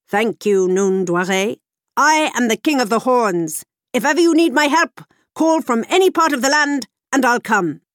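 horned man thanking his rescuer, loud; horned king. A narrator's reading.

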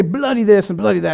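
badly faked British accent; mock British pronunciation. Shown as a demonstration. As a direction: have a poor go at a British accent. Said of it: "worst accent you've ever heard".

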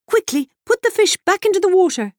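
high, loud horse-like urgency; whinnying mare. A narrator's reading. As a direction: neigh the words out urgently. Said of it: "whinnied the mayor".

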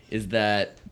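hiccuping mid-sentence; talking through the hiccups. Real, not acted. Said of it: "Sorry, got the hiccups".

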